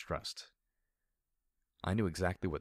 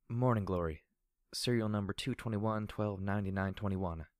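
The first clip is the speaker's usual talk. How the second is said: reciting by rote. Acted. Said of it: "she said as if reciting the information".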